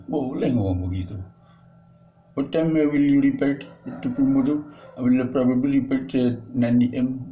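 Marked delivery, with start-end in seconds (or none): 2.4-7.2 Indonesian-accented English. Shown as a demonstration. Teacher showing students that Indonesian-accented English is fine.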